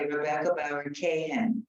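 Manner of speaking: "Kayhan" in the full name said as KAY-han; pronunciation model. Shown as a demonstration. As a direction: model "Rebecca Bauer Kayhan" for a group to repeat. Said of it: "so everybody say".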